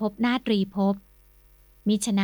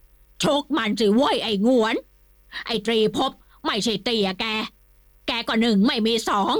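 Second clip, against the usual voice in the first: angry shout. Acted. The old lord yells at Kimnuan to fight, furious. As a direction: bellow at him to hit back. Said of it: "ร้องตะโกนลั่น".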